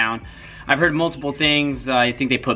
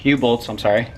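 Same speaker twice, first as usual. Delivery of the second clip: out of breath. Real, not acted. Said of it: "Sorry, I'm out of breath".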